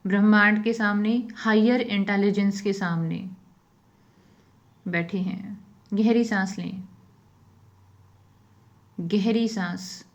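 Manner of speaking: unhurried phrases, leaving silence after each instruction; guided meditation. Real, not acted.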